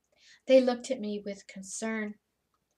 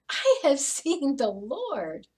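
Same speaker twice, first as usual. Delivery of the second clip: slow and louder, declaring it; joyful proclamation; 2 semitones higher, 4 dB louder, slower than usual. Acted. Mary announcing to the disciples she saw the Lord, proclaiming joyfully. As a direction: proclaim it with growing certainty.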